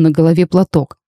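plain reading voice

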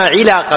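علاقة with i after the ع; kasra on العين. Shown as a demonstration. Teacher names the sword's cord, علاقة with kasra. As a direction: say علاقة as "ʿilaqa". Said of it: "بكسر العين".

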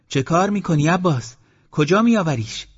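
high, loud startled shout. Acted. Aunt shouting at Abbas across the wall, alarmed. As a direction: call out over the wall in alarm. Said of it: "داد زد".

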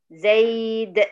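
"زيد" as zayd with the d bounced; stopped with qalqalah. Shown as a demonstration. Teacher repeating the pause form, "زيد" with qalqalah. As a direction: drop the -un and echo the d of "زيد". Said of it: "سكنت الدال وعملت لها القلقلة".

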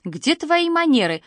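grandma scolding the grandson for eyeing another's dessert; reproachful. A narrator's reading. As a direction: tell him off for his manners. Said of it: "укоризненно покачала головой бабушка".

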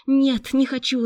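high, loud protest; desperate refusal. A narrator's reading. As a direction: cry out in sudden revolt. Victim refuses, breaks free.

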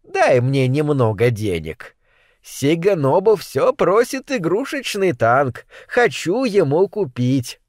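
lightly voiced fawning old woman; fawning old mother. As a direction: wheedle like an old mother after money. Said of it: "заискивающе проворковала".

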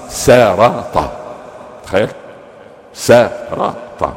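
سرط stretched very slowly, syllable by syllable; drawn out. Shown as a demonstration. Marvelling at the word before the congregation, slow drawn-out delivery. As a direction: savour the word سرط, dragging it out. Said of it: "سرط بالسين".

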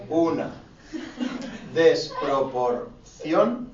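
each word alone, very slow, long pauses; slow dictation. Shown as a demonstration. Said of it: "con tilde en la O".

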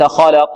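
خلق ending limp with no bounce; weak qalqala. Shown as a demonstration. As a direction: swallow the final qaf. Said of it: "هكذا فيها ضعف". (قلقلة ضعيفة في خلق)

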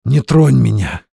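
a wife in pain pushing her husband away; hoarse rasp. Acted. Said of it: "прохрипела".

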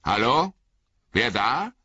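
high call into the fog. Acted. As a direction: call who's there into the dark. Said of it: "rief der Bauer Margot".

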